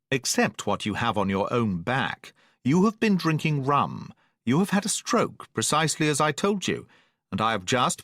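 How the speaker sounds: a mild lecture from the doctor; stern doctor. Acted. Doctor scolds the captain.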